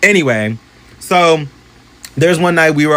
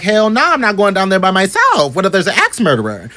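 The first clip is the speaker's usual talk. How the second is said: scared refusal; 6 semitones higher than usual. Retold or imitated. Jacob refuses in fright.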